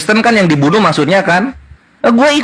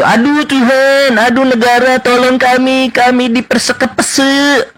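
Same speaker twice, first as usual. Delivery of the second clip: mock lament; 2 semitones higher, slower than usual. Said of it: "Iya, itu tuh".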